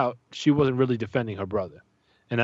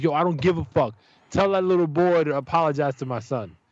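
higher, mildly heated demand; retold frustration; 4 semitones higher than usual. Dad demands an apology for his son, frustrated. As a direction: re-enact digging in, a touch angry. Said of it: "I'm getting more frustrated".

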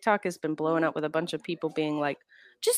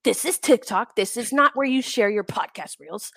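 mocking TikTok commenter; 3 semitones higher than usual. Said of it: "And they're like".

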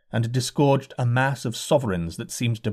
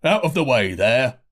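bawling coachman; 3 dB louder than usual. A narrator's reading. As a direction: shove the crowd aside with your voice. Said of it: "bawled a coachman".

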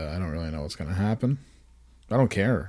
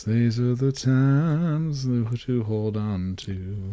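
slow, grand mock-reverent line; mock solemn; much slower than usual. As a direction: savor it like history. Mock solemn momentous moment.

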